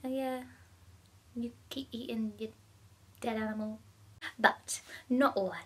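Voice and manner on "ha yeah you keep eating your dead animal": forced ha-ha with a sarcastic edge; fake laugh-off. Vegan shrugging off a guest waving nuggets, forced laugh. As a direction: laugh it off through gritted teeth. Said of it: "laughed it off and was like".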